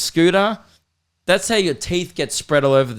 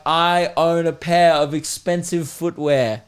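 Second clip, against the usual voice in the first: slow, drawn-out mock announcement; drawn-out mock boast; mock proclamation; slower than usual. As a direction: spell out the boast like a blimp advert. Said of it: "make it fly over the skate park being like".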